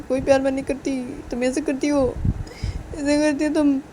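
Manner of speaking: loud, upset lecture to a partner; acted crying outburst; tearful reproach. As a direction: complain hurt and loud, as if through tears. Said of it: "बोलती रोते रोते".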